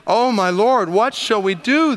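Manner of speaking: high, panicked cry for help; panicked servant. Acted. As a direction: plead in sudden fear. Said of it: "He's panicking".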